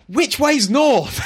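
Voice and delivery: high, slow, baffled question; a clueless hero asking the obvious, drawn out; puzzled Luffy. Retold or imitated. Friend retelling a manga scene, Luffy lost, slow baffled high voice. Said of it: "He's like".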